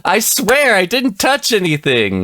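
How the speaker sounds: laughing high protest of innocence; nervous bad liar. Real, not acted. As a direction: giggle through a guilty denial. Protests innocence after crash.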